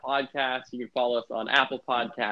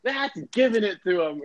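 mock gleeful announcer, higher; announcer imitation; 7 semitones higher than usual. Imitating the Bruins announcer during a scrap, mock relish. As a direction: relish the hit like a biased broadcaster. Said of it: "he goes".

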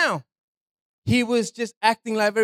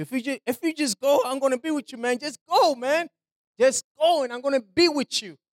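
God voiced, urging; 4 semitones higher than usual. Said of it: "Man, God is like".

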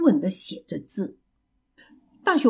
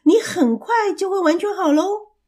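cheerful mouse calling out, pitch rising; loud announcement; 8 semitones higher than usual. A narrator's reading. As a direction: announce it eagerly as the excited mouse. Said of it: "老鼠大声地说". (兴奋地大声说)

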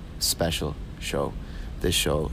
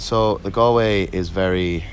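Galway lilt; 5 dB louder, slower than usual. Shown as a demonstration. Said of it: "it bounces like this".

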